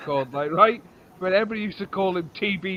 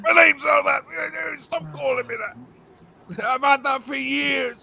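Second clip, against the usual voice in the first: mock outrage; 5 semitones higher than usual. Teacher outraged at his nickname, mock indignant and higher. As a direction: play the offended teacher, half-hearted. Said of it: "He's fucking outraged".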